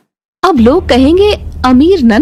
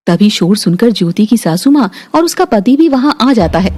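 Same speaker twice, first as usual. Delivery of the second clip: lower, even storytelling voice; story narration; 5 semitones lower than usual. A narrator's reading. Narrator telling the family story, calm and even. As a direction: narrate the scene calmly, a touch lower.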